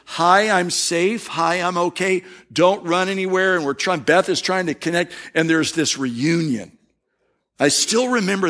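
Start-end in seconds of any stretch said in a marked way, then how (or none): 0.0-3.5 calm her so she won't bolt; a stranger gently reassuring a lost girl; gentle reassurance. Retold or imitated. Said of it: "when you're trying to say".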